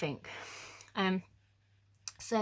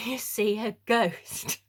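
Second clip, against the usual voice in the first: laughing through the words, slowly; slow, amused build to ghost; 3 semitones higher, 4 dB louder, slower than usual. Real, not acted. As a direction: giggle as you deliver the punchline. Punchline of the ghost.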